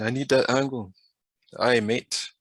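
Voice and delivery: put-on half-hearted Australian accent; a hint of badly faked Aussie; attempted Australian accent. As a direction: have a light, unconvincing go at sounding Australian. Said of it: "I can't do the Australian accent".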